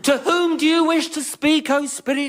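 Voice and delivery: grand, formal mock mystic question; pompous medium. Medium asking the ghost whom to reach, hammed-up. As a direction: play the solemn psychic.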